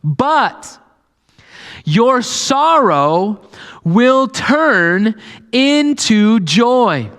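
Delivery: Jesus reassuring the disciples; Jesus comforting. Retold or imitated. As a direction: lift them from sadness to joy. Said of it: "He's like".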